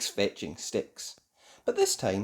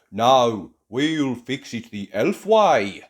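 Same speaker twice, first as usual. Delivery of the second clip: put-on slow, loud elf boy; lightly voiced proud elf; 7 dB louder, slower than usual. Barnaby speaking.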